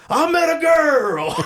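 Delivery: high, slow, swooning voice; mock-swooning, half laughing; giddy movie quote. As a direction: sing it out like a lovestruck boy. Mocking a giddy movie line.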